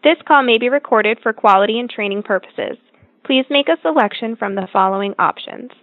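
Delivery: recorded automated phone greeting; like a prerecorded hotline message; phone menu voice. Real, not acted. Automated call center menu plays.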